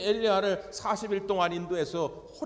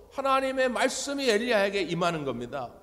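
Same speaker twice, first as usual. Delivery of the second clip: ordinary talk, nothing marked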